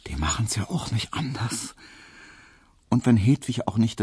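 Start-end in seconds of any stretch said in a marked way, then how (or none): 0.1-1.7 whispered with a smile; smiling whisper. A narrator's reading. Hedwig whispering to Emil about the neighbours, smiling. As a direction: breathe it to him, amused. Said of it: "flüsterte ihm Hedwig lächelnd zu".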